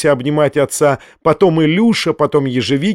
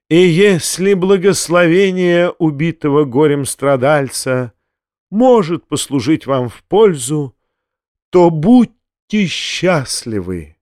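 solemn, martyr-like blessing; a grand, suffering benediction; booming biblical narration; slower than usual. Acted. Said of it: "самым торжественным голосом". (торжественно, как страдалец)

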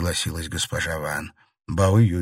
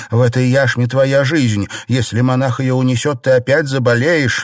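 louder, higher alarmed pleading; urgent shouting; 5 semitones higher, 6 dB louder than usual. A narrator's reading. Xiren warning Bao Yu loudly of illness. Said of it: "закричала Сижень".

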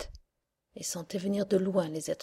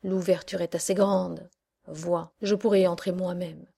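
witch voice; 4 dB louder than usual. Acted. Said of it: "dit la sorcière".

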